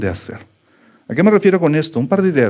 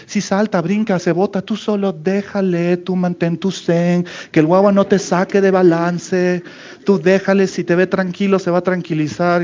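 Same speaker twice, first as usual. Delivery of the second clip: mock zen advice; 4 semitones higher than usual. Mocking calm-parenting advice.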